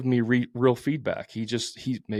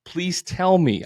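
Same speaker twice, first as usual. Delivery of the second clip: eagerly curious; 5 semitones higher, 5 dB louder, slower than usual. Pretend. Imagined eager reply to critic.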